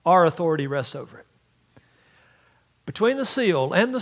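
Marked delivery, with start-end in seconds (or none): 0.1-1.3 proclaiming. Retold or imitated. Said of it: "and says".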